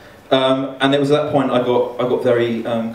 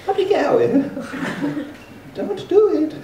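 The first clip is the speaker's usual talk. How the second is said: put-on high-pitched comic Mexican accent. Young boy pleading with the man above, in a Mexican accent. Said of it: "Gotta go with Mexican".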